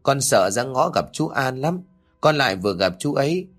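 put-on small boy reluctantly confessing his fear to parents; a hint of a frightened child; scared little boy.

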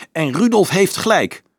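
high, fiery agreement; fierce interjection. A narrator's reading. Carolus backing Rudolf, cutting in fiercely. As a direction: cut in fiercely. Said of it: "viel Carolus fel in".

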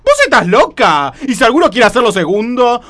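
protesta fuerte y aguda; rechazá la idea con indignación; escandalizada. Acted. Escandalizada por la idea de sobrina. (indignada, levantando la voz)

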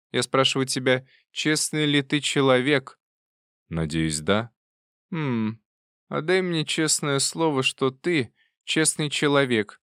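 put-on slow demanding old aunt; insistent old aunt. A narrator's reading. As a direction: press him slowly, like a stern aunt.

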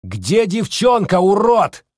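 high, loud, slow bark; barked demand. A narrator's reading. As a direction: bark the question in his face. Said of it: "рявкнул Сдемир".

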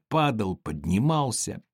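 plain reading voice

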